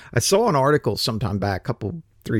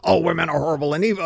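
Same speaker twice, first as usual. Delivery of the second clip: mock quote; 4 semitones higher, much faster than usual. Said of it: "I don't want to just be straight up like".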